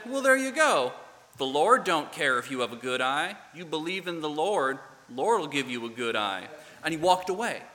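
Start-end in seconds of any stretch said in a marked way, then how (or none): 0.1-6.5 put-on Southern accent. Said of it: "this thick Southern accent".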